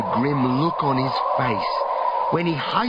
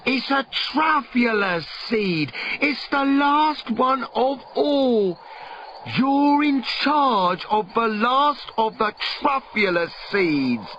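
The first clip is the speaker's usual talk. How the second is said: urgent plea; 7 semitones higher than usual. Acted.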